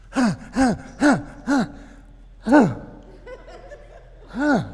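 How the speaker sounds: mock whipping grunts. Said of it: "How you gonna whip him?".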